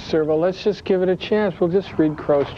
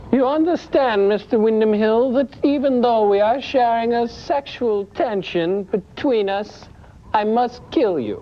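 Holly, femme fatale; 4 semitones higher than usual. Acted. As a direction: purr it like a dangerous seductress. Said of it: "Joel, you're Holly".

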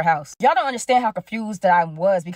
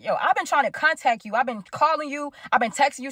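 retold livid; 4 semitones higher than usual. Speaker sitting up in bed confronting girlfriend, mild retold anger. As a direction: list the grievances with a touch of anger. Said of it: "I am livid".

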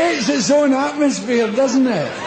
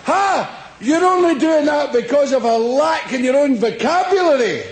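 smug critic; 3 semitones higher than usual. Retold or imitated. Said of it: "They really go".

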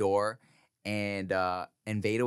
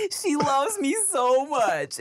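high, slow, drawn-out swoon; delighted gushing; 4 dB louder, much slower than usual. Retold or imitated. Dad loving being needed by daughter, gushing. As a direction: gush it like a smitten parent.

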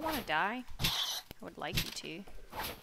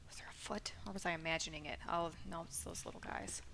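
whispering; 6 dB quieter, faster than usual. Real, not acted. Sneaking, whispering.

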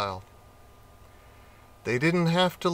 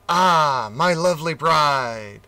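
loud, gushing greeting to the bride; the eager groom hails his reluctant bride, gushing; delighted; 4 dB louder than usual. Acted. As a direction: sweep her up with a grand hello.

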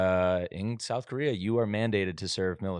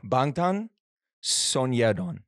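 put-on Korean accent; 3 semitones higher, slower than usual. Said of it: "you did an accent".

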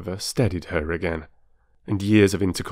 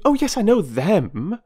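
cutting in, high and loud with impatience; impatient; 13 semitones higher, 6 dB louder than usual. A narrator's reading. Mrs Wilkins interrupting Mrs Arbuthnot's quotation, loud and impatient. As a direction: brush it aside, hurry her along. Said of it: "interrupted Missus Wilkins impatiently".

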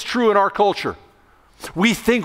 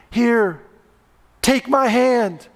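higher, slow, gentle offer of a hand; lightly voiced four-year-old reaching down to help; sweet little girl; 5 semitones higher, slower than usual. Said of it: "Sweet Susie".

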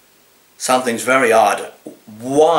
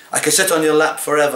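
rushed; 3 semitones higher, much faster than usual. Acted. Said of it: "I said I could sit on your lap forever".

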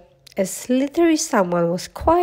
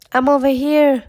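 louder, higher call; 5 semitones higher, 5 dB louder than usual. A narrator's reading. Mowgli answers his friends across the river, calling. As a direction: call out so they can find you. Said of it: "Mowgli called".

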